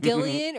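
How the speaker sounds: Gillian as GIL-ee-un; hard G on Gillian, three syllables; hard-G pronunciation. Shown as a demonstration. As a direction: say Gillian with g as in gift. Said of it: "people either said".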